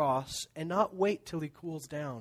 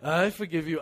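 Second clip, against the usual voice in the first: mock grudging "I forgive you" said firmly with a smug edge; grudging forgiveness. Churchgoer pretending to forgive while wanting revenge, smug. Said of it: "and then you're like".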